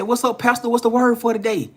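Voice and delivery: high, bright mock greeting. Imitating the old man's greeting to the young man. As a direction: call out a cheerful hello to the pastor.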